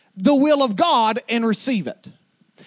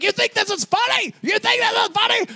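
granddad screaming; 10 semitones higher than usual. Retold or imitated. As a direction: yell it with mock outrage. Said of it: "your granddaddy screamed at you".

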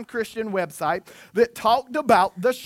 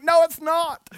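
high, loud mock retort; playful insisting; 8 semitones higher, 5 dB louder than usual. Dad overrules his kids' protest, high loud playful insistence. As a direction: insist loudly like an over-affectionate dad.

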